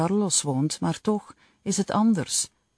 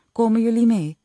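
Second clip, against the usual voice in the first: put-on raised, higher call to the kids; 7 semitones higher, 6 dB louder, faster than usual. Father calling the children to come along, loud and high. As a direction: call them over, higher and louder. Dad calls kids from car.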